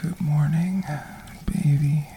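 intimate breathy ASMR whisper. Acted. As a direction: whisper it close to the mic. Holds a whisper throughout.

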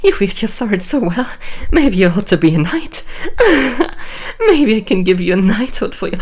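fast, laughing tease; playful laughing. Acted. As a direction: tease him through laughter.

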